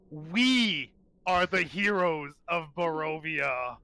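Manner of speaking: slow, deliberate, proud declaration; proud hero's vow, slow and measured; proud leader. Acted. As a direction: proclaim it slowly like a leader rallying his people. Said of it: "a proud, like, leader would say".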